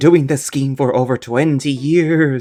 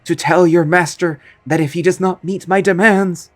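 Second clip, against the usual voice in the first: threatening ghost; 4 semitones higher than usual. Acted. Ghost villain threatens to burn the castle to the homeowner.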